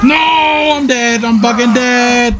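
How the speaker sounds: shouted no, drawn out at the end; dismayed shout. Real, not acted. Gamer shouting as he gets killed. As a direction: cry out in real dismay. Dying in game.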